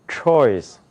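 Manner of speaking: 초이스 as English "choice", one falling glide; English pronunciation. Shown as a demonstration. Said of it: "어떻게 돼요".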